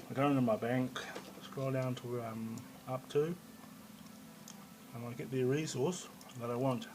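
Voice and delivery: talking while chewing gum; words round a wad of gum. Real, not acted. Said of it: "excuse me, I'm chewing gum".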